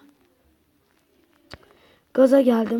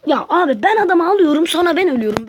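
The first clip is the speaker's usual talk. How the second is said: frustrated outburst; 5 semitones higher than usual. Real, not acted.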